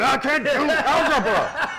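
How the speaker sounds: high, loud, slow whiny outburst; mock frustrated yell. A man mocking his own math rage with a high whiny yell. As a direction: wail it like a kid who gives up.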